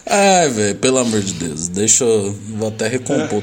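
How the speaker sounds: laughing. Real, not acted. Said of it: "Tô chorando real".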